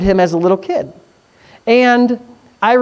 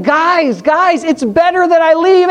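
mock Jesus explaining; 8 semitones higher than usual. Pastor voices Jesus to disciples.

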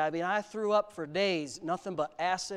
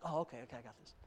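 retold calm reassurance; 8 semitones lower, 15 dB quieter, much faster than usual. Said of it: "I'm like".

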